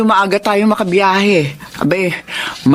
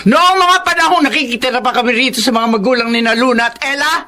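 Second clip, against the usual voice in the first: high, raised accusing voice; angry accusation; 5 semitones higher than usual. Acted. Uncle accusing Frank of past cruelty, raised angry voice. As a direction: throw his cruelty back at him.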